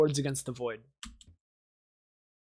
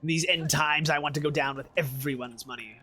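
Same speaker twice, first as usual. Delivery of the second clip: greedy merchant voice. Retold or imitated. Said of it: "He's gonna be like".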